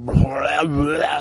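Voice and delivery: garbled mock-monster burble; imitated night noise. Storyteller imitating a sound heard at night, garbled roar. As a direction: blurt out a wordless creature noise. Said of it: "you hear".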